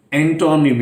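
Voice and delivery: एंटोनिम with a full open O in the middle; common mispronunciation. Shown as a demonstration. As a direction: say "en-TAW-nim", O fully sounded. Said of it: "इस ओ को एम में pronounce करते हैं".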